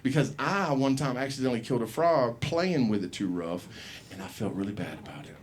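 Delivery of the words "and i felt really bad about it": softer sheepish admission. Real, not acted. Sad confession about frog.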